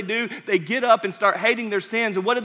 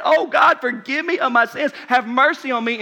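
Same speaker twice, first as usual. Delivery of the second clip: pleading cry; 3 semitones higher, 3 dB louder than usual. Acted. Tax collector's broken prayer.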